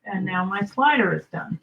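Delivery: talking around a pin held in the lips; pin in mouth. Real, not acted. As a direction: mouth partly full with a pin. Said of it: "I have a pin in my mouth".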